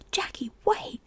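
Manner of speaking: urgent whispered call; loud stage-whisper call. A narrator's reading. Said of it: "Jordan called".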